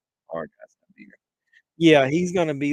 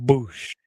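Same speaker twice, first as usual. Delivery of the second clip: 1 mock boosh sound; 3 semitones lower than usual. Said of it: "it's gonna go".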